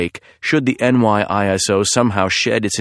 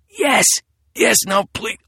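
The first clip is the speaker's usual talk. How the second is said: terrified pleading; 13 semitones higher than usual. Acted. Terrified victim begging.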